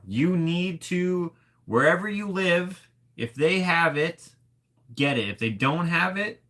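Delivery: high-pitched, insistent recommendation; emphatic urging. Real, not acted. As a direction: urge them like it truly matters. Urging viewers to try the sauce.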